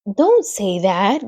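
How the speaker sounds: slow, pleading groan; a pained little pig; mild groan. Acted. Wilbur begs Charlotte to stop, mild groaning. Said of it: "groaned Wilbur".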